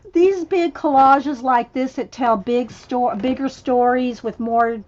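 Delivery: talking through hiccups; words broken by hiccups. Real, not acted. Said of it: "excuse me, got the hiccups".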